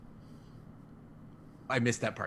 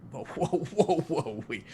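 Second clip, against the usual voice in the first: startled whoa; 6 semitones higher, 5 dB louder than usual. Real, not acted. Alarmed interruption, laughing.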